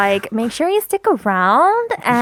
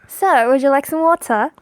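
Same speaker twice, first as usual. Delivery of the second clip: tentative go at British English; attempted British accent; 3 semitones higher than usual. Shown as a demonstration. Guest trying the accent on request, attempted British accent. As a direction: have an unsure try at British. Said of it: "I can't do the British or Australian accent".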